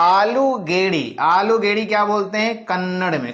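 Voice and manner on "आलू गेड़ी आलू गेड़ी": new word said slowly and clearly; slow word teaching. Shown as a demonstration. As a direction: draw out each word for the class. Teacher introduces a new regional word. (नया शब्द धीरे-धीरे सिखाते हुए)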